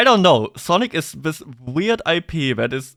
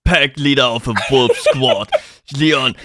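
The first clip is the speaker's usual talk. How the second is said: put-on edgy teen villain voice; 4 semitones lower than usual. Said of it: "He sounded like some edgy teenage boy".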